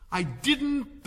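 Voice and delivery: quick high cry cutting in; hurried interruption. Acted. March Hare cuts in on the Hatter with a quick high protest. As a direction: blurt it out fast to cut him off. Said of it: "interrupted in a great hurry".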